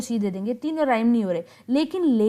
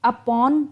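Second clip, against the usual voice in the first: "upon" with weight on "pon", "u" light; stress on pon; 4 dB louder than usual. Shown as a demonstration. Teacher showing iambic stress to the class, u-PON stressed. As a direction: say "upon" as u-PON, lean on the second syllable. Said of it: "पॉन एक stress आ गया".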